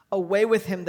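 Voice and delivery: loud mock crowd yell. Leaders yelling at Pilate, loud mock mob shout. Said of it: "they yelled".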